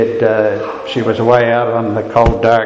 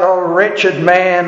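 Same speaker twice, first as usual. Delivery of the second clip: cry of despair; 4 semitones higher, slower than usual. Acted. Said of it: "he cries out".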